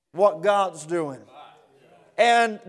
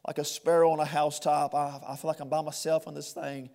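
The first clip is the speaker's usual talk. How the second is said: hushed lament; 4 semitones lower, 6 dB quieter, faster than usual. Acted. Voicing the psalmist's lament, hushed.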